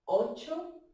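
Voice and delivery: very slow, drawn-out dance count. Shown as a demonstration. Teacher runs the whole sequence for the class, slow count. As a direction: count the steps in slow motion, stretching the vowels. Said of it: "vamos a hacer toda esta secuencia en lento".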